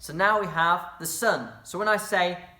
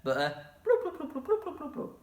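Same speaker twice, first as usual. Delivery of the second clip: high bubbly fish bloops, fading softer; 9 semitones higher, 4 dB quieter than usual. Shown as a demonstration. Teacher contrasts fish bloops with water drops, voice up high. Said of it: "Not to be confused with your bloop".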